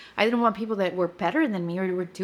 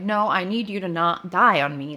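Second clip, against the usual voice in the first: mildly angry retold plea, a little louder; retold anger; 4 dB louder than usual. Wife retelling her plea to husband, mildly angry. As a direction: imitate snapping back in frustration. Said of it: "But then I got angry".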